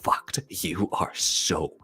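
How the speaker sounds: gleeful teasing. Retold or imitated. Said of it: "He's like".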